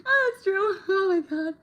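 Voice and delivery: high, breaking into laughter; real helpless laughter; laughing. Real, not acted. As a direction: gasp it out mid-laugh. Laughing hard after a joke.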